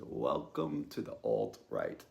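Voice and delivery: slow, low, ominous welcome; friend's low reply. Retold or imitated. Friend answers in the car, slow and low. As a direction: deliver it slow and low, like a verdict. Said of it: "And he just says".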